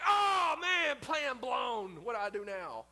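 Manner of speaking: high, loud mock panic; mock panicked God. God panicking over his ruined plan, mock shouted. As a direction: ham up a flustered God. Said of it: "And God's like".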